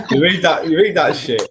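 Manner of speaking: can't believe he brought it up; amused disbelief. Real, not acted. Laughing disbelief at question.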